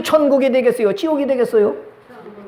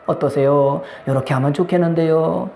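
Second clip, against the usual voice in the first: sweet polite request; 3 semitones lower than usual. Shown as a demonstration. Pastor showing the congregation how to ask a spouse, sweetly. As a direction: ask nicely, almost sugary. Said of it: "닭살 돋아요?".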